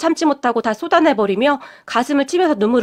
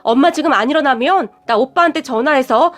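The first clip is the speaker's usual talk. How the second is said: angry outburst; 2 semitones higher than usual. Retold or imitated. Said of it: "다시 화를 내버렸어요".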